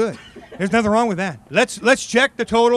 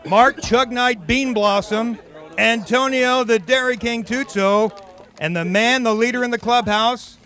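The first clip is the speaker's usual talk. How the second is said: ring announcer intro. Acted. Host introducing the final four chuggers like a ring announcer. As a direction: introduce them like boxers entering the ring.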